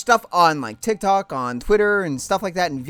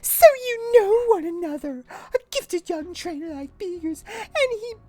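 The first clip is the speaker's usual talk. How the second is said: haughty high mother; 11 semitones higher than usual. Acted. Mother Lusamine scorning Lily, high and haughty. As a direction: look down on her daughter. Voicing cold mother character.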